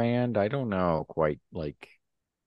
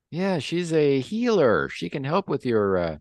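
put-on high-pitched Russian-accented underling; anxious-to-report Russian voice, pitched well up; 9 semitones higher, 3 dB louder than usual. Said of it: "Can you set your Russian accent".

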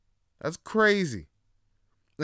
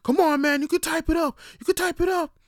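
higher, louder hype yell; cheering coworkers; 8 dB louder than usual. Retold or imitated. Coworkers yell encouragement across the office, loud and hyped. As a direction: pump him up like a crowd.

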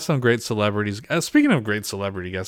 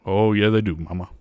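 Impression of a famous singer. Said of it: "So this is a famous singer".

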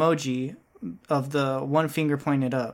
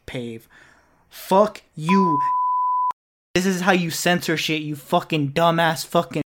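swearing tirade. Acted. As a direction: bark insults at your co-host. Ranting at co-host Pave.

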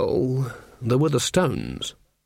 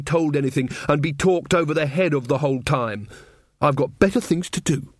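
higher, spluttering defiance; indignant young witch; 3 semitones higher than usual. Acted. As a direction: stumble into a mildly angry outburst. Voices Magrat's angry outburst.

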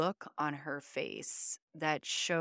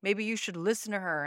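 a lightly voiced taunting stepdad, a bit higher; mocking stepdad; 3 semitones higher, 4 dB louder than usual. Abusive stepdad taunting the mother for trying to leave, mild mockery. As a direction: sneer it out like a bullying stepfather. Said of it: "and was like".

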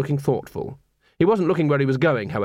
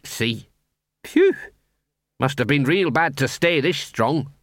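gruff little mongrel sniffing about; Gaspode's voice; slower than usual. Acted.

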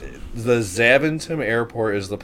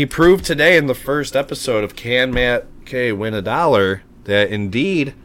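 excited; 4 semitones higher, 4 dB louder than usual. Acted. Announcing the win like a host.

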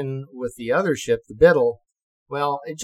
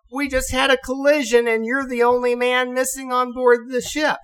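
higher, louder exasperated scolding; exasperated officers; 11 semitones higher, 4 dB louder than usual. Retold or imitated. Officers telling ensign of the collision, exasperated. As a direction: lay it out, fed up.

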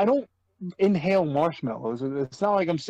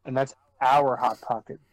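put-on slow light Russian accent; stern Russian-accented English, deliberate; 3 semitones lower, slower than usual. Russian joke continued.

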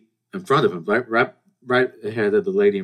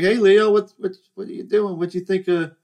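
put-on high-pitched, talking to a kid; retold hello, pitched up for a child; playful greeting; 10 semitones higher, 4 dB louder than usual. Older sibling greeting little brother, playful.

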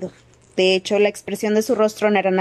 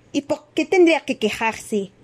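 put-on higher-pitched, indignant young champion; Fleur's indignant outburst; 6 semitones higher than usual. A narrator's reading. Champion objecting to talk of complaints, indignant outburst. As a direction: burst out in protest, pitch raised. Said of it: "estalló Fleur Delacour".

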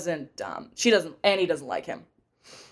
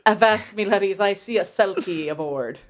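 pirate voice. Pretend. Pirate voice joke.

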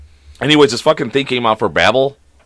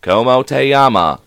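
slow, evenly spaced automated language-lesson voice; robotic woman; slower than usual. Retold or imitated. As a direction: imitate a robotic woman reading Spanish. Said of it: "just a robotic, like, woman's voice".

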